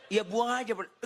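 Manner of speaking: high, insistent mock reply; high-pitched insistence. Phone seller insisting to the pastor, high and insistent. Seller repeats himself after the protest.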